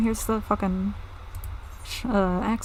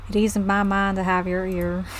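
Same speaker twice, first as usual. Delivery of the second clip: put-on pirate accent slipping into southern; failed pirate accent. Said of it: "I can't do a pirate accent".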